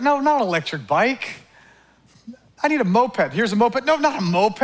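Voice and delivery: lightly voiced greedy man, rising and insistent; greedy whiner. Preacher acting out a greedy believer, mildly whining. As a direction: whine for something bigger each time.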